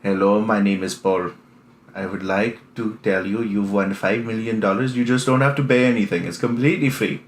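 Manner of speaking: lightly put-on Indian telemarketer accent; half-hearted Indian scam-caller accent with the pitch; mock Indian accent. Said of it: "they don't sound American at all".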